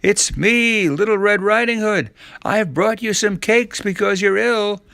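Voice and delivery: put-on high-pitched false little-girl voice; sweetly trick your way inside; pretending to be the girl. Wolf poses as Little Red Riding Hood, falsely girlish.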